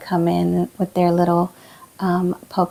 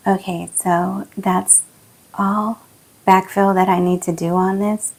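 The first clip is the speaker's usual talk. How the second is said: losing voice. Real, not acted. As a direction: voice worn from sinus infection. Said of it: "Excuse my voice today".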